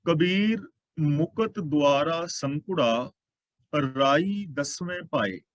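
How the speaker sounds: slow, measured chanting of the verse; slow scripture recitation. Acted. Preacher reciting a verse to the congregation, slow and measured. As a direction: lay out each word of the holy line, unhurried.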